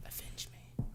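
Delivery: breathy dying whisper; overacted death scene. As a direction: whisper it with your last breath.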